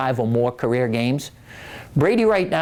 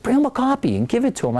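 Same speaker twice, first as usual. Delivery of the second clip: higher, quicker wife voice, pushing him to do it; wife's urging voice; 8 semitones higher, faster than usual. Retold or imitated. Husband quotes his wife urging him, higher and quick.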